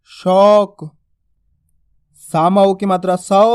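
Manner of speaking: slow syllable-by-syllable reading, long au; measured classroom chant stretching each vowel; spelling-out drill. Shown as a demonstration. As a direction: spell out slowly, pause, then blend the word firmly. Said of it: "शब्दों किस तरीके से पढ़ेंगे".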